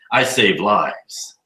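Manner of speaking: very slow, self-important drawl; pompous doctor. Retold or imitated. Retelling a smug doctor at Starbucks, slow and pompous. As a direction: stretch each word out like a big shot. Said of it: "did he really say it like that".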